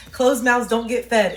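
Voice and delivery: loud, deliberate British-accented saying. Real, not acted. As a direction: lay down the proverb in a British voice. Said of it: "why I was having the accent".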